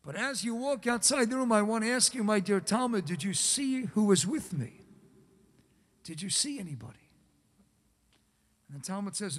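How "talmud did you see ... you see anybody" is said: hushed, quick whisper of a question; secretive whisper. Acted. Rebbe asks secretively.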